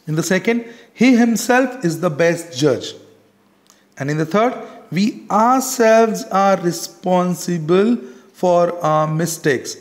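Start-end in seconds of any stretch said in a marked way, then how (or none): 0.9-2.9 "he himself" lifted and firm, then falling to judge; teacher's example with emphasis on "he himself"; stress on himself. Shown as a demonstration. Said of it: "you can see the stress and the emphasis". 4.9-9.8 "we ourselves" drawn out with weight; slow, deliberate emphasis on "we ourselves"; stress on ourselves. Shown as a demonstration. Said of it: "you can see the stress and the emphasis".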